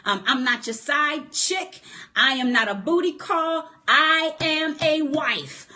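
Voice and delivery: sassy, firm put-down; with attitude. Shown as a demonstration. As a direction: tell him off with sass, slowing at the end. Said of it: "get an attitude and say".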